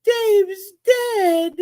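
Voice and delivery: high, anguished wail, said quickly; distraught cry. Retold or imitated. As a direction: wail the news in shock. Retold despair over dead fish.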